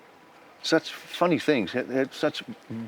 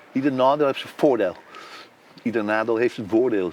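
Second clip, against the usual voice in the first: put-on Amsterdam accent; 2 semitones lower than usual. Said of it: "he speaks in a Amsterdam accent".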